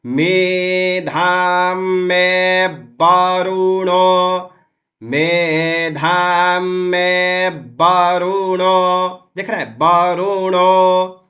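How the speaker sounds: वरुणो said as बरुणो, slow and chanted. Shown as a demonstration. Teacher showing that व in वरुणो is read as ब. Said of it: "तो इसका उच्चारण होगा".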